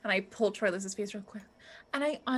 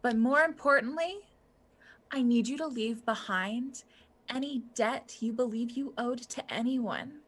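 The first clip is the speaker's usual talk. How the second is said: gentle healer voice; 3 dB quieter than usual. Acted. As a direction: guide them to peace gently. Cleric NPC comforting the heroes.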